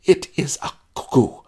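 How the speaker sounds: put-on high, pouty girlish voice; petulant insistence. Spoiled bride insisting to her groom, high and pouty. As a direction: stamp your foot and insist, high and sulky. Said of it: "She stamped a pretty foot".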